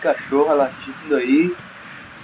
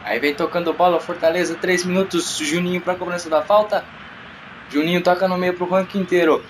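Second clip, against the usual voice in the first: fast radio football commentary; live play-by-play. Acted. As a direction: call the passes live. Play-by-play narration.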